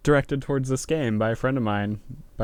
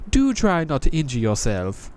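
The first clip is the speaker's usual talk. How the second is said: higher, world-weary knight; a jaded knight greeting a newcomer; higher sardonic knight voice; Crestfallen Knight voice; 5 semitones higher than usual. Acted. Knight mocks.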